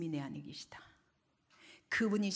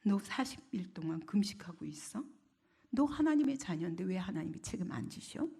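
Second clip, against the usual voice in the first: mocking devil. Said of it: "마귀는 계속 조롱합니다".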